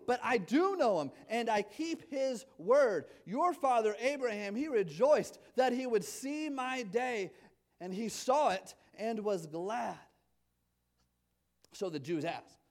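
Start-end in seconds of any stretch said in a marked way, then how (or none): 0.1-10.0 full force preaching. Acted. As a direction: proclaim it to the whole church. Preaching Jesus's words at force.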